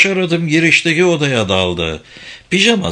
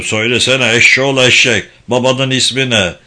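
put-on old man's impatient, louder demand; mildly roared scolding; roaring; 4 dB louder than usual. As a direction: demand it loudly, as a gruff father. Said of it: "diye gürledi yaşlı adam".

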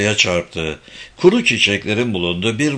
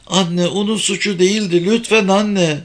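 put-on high-pitched little girl begging; upset small girl; pleading child; 8 semitones higher than usual. A narrator's reading. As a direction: plead with mother in a raised child voice. Child pleads with her mother.

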